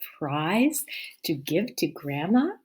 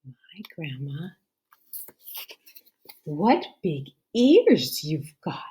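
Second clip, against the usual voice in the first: put-on girl's wonder; 5 dB louder than usual. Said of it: "said to Grandma".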